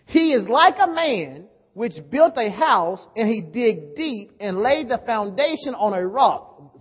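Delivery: slow, emphatic Bible reading; declaimed scripture. Real, not acted. Preacher reading the parable of the builder, measured declamation. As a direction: read the verse out deliberately to a crowd.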